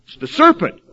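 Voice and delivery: high, loud mock-whiny blame of "serpent"; mocking whiny excuse. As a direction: pass the blame in a silly high voice. Mocking excuse voiced in sermon.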